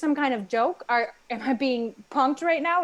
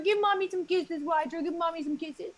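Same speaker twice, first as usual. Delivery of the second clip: put-on baby talk to a dog; 4 semitones higher than usual. Owner cooing at her dog.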